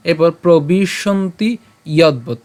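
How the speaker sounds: "যদ্বৎ" with a plain stop ব; slow demo. Shown as a demonstration. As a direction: stress the ব in "যদ্বৎ" as a hard b. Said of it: "এখানে যে আমাদের ব আছে". ("যদ্বৎ" বর্গীয় ব দিয়ে)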